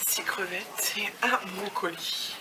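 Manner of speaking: slow, unvoiced whisper of the meagre order; hushed mock complaint; whispered aside. Real, not acted. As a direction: whisper it like a disappointed secret. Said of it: "Je vais souffler, excusez-moi".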